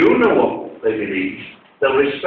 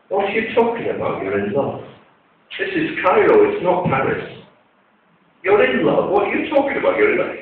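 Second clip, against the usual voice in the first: much higher, mock-exasperated disbelief; incredulous scolding; 6 semitones higher than usual. Idris scolding the lovesick young man, incredulous. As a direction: throw up your hands at the silly boy.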